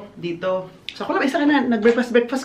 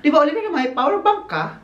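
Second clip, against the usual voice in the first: quoting Dad; 9 semitones higher, 4 dB louder than usual. Retold or imitated. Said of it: "Sabi niya".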